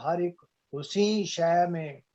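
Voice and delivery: measured Urdu couplet reading; ghazal recitation. Acted. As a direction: recite the verse with drawn words and pauses. (शायरी पढ़ने का अंदाज़)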